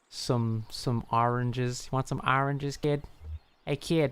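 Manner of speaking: put-on practicing a New York street accent; a rough stab at New York talk. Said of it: "She's New York accent lady".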